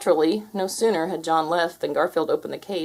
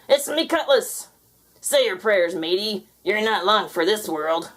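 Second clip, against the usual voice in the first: gloating pirate; 3 semitones higher than usual. Acted. Pirate triumphant threat.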